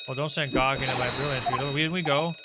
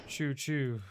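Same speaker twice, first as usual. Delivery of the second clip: fake mouse squeak; 7 dB quieter than usual. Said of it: "that was quite unconvincing".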